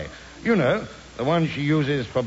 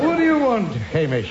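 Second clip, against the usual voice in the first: impatient shout; 4 semitones higher, 3 dB louder than usual. Acted. Impatient snap at servant.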